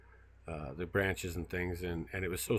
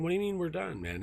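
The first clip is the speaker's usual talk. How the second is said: much higher, disbelieving "what do you mean"; incredulous protest; 11 semitones higher than usual. Retold or imitated. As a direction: push back in disbelief at the crew. Retold protest at crew quitting.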